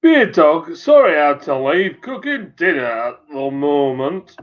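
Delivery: imitated West Country regional accent; playful West Country accent imitation; Chris's accent. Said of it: "Chris's accent".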